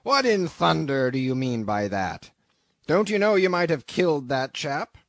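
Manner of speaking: loud, indignant sea captain; demanding rebuke at full voice; captain's angry shout. A narrator's reading. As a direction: bawl out a crewman, high and loud. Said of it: "cried the captain".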